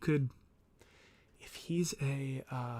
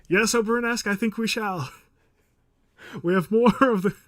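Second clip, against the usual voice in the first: put-on posh English accent; 8 semitones higher, 9 dB louder than usual. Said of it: "I can't even do the accent".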